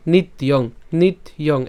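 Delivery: নিত্যং as held "nit" plus "iyong"; joined pronunciation demo. Shown as a demonstration. Teacher joins the parts for students, careful demonstration of নিত্যং. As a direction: model নিত্যং carefully, t closed before the glide. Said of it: "একসাথে যদি উচ্চারণ করি".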